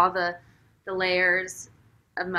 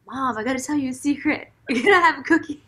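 lightly voiced little boy, higher; imitating child; 6 semitones higher, 4 dB louder, faster than usual. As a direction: play the little son sharing a secret. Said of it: "whispered in your ear".

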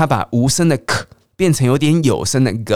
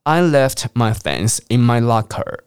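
mild British lilt with locker ending in a clean ah; British intonation. Shown as a demonstration. Teacher demoing British English to students. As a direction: lightly put on a British tune. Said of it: "那英国的语调会念成".

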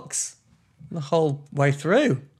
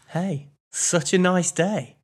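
wrong tone; 3 semitones higher than usual. Shown as a demonstration. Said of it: "the tone of that has gotta be so right".

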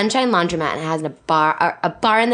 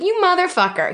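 mock outrage; 12 semitones higher than usual. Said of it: "And I was like".

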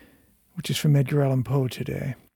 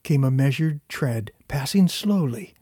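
slow, solemn storytelling voice; story narration. A narrator's reading. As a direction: read it like a dark old tale. Reads a Gothic tale aloud.

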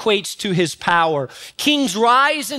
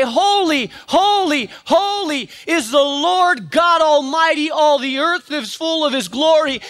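answering the first call, high and ringing; echoing angel call; 6 semitones higher than usual. Acted. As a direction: echo it back like another angel. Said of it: "would echo back to them and say".

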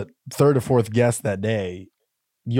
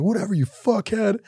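retold backtalk; 7 semitones higher than usual. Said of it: "first time I yelled at my dad".

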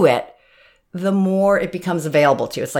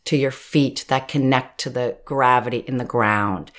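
calm grounding exercise; 4 semitones lower than usual. Shown as a demonstration. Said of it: "let's do it together right now".

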